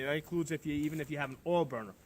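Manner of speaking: talking through chattering teeth; cold, teeth chattering while speaking. Real, not acted. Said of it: "if my teeth are chattering".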